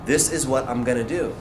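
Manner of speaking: low, soft and certain; inner resolve. Retold or imitated. Life flashing before his eyes, quiet resolve. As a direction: state it quietly to yourself as a decision. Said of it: "saw my life pretty much flash".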